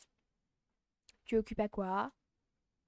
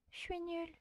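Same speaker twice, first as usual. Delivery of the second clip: put-on shy girl voice; 6 semitones higher, 10 dB quieter than usual. Shown as a demonstration. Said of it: "je sais plus comment faire sa voix".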